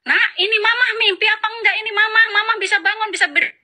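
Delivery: high-pitched, excited retelling of her own outburst; mock joyful exclamation, pitch leaping up; retold joyful cry. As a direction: act out a mother amazed she can stand. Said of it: "saking senangnya, saya jerit-jerit, nangis".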